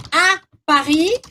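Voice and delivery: à Paris said slowly in French; slow, clear à Paris; French pronunciation. Shown as a demonstration. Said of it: "Eu também uso". (à Paris devagar)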